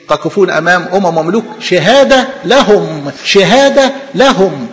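شهادة drawn out slow and firm on repeat; stress on شهادة. Shown as a demonstration. Preacher stressing Christ's words, slow on شهادة. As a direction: lean into شهادة the second time. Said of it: "repeats for emphasis".

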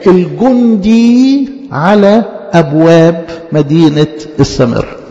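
slow, measured verse with stretched words; poetic recitation. A narrator's reading. Preacher quoting Saint Jacob of Serugh's poetic line, slow declamation. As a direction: declaim it phrase by phrase, pausing between.

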